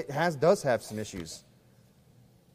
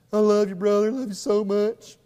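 gushy, sappy, higher and louder; mushy fake love; 6 semitones higher, 5 dB louder than usual. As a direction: ham up a dopey sentimental gush. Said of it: "gushy expressions, this mushy kind of just dopey, sappy".

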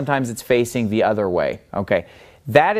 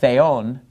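"theon" with the weight on "on"; stress on second syllable. Shown as a demonstration. Teacher demonstrating the word for God, "theon" stressed on the second syllable. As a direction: lean on the end of "theon". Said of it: "the accent is on the second syllable".

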